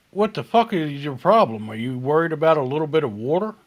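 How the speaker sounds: retold sassy snap, quick; mock snap. Waitress mock-scolding Chris over the water, sassy. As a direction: fire it back at him, fast and cheeky.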